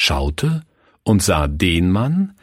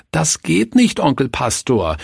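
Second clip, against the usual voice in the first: put-on high, whiny child protest; children whining to their uncle pastor; 6 semitones higher than usual. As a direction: plead like a kid who won't hit. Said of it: "jammerten die Räuber".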